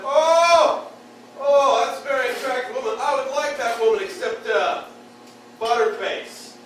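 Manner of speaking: loud, high leering buddy; excited buddy. Retold or imitated. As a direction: gush over her like a dumb buddy. Buddy voiced spotting attractive woman.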